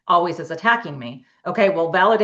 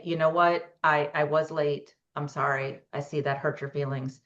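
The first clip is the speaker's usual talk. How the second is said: slow, softer owning-up apology; slowed calm apology; 4 semitones lower, 5 dB quieter than usual. Shown as a demonstration. Coach demonstrates a calm apology to partner, slow and soft. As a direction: let each word land gently. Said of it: "and slow it down".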